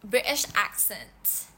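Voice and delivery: drawn-out British accent. Shown as a demonstration. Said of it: "Request kata-kata Inggris".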